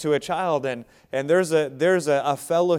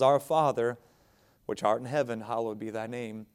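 quiet, reverent opening of the Lord's Prayer; hushed, respectful address to God; 4 semitones lower, 4 dB quieter than usual. Shown as a demonstration. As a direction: pray it softly with respect and honor. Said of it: "Not flippantly, but respectfully, with honor".

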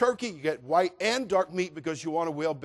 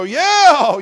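loud high whoop; stuffed guest cheering for more food; 9 semitones higher, 14 dB louder than usual. Acted. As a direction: whoop with delight. Eater cheering for sandwiches.

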